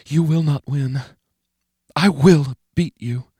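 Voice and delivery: high, slow, menacing taunt; a threat said with cold resolve. Acted. Menacing inner voice.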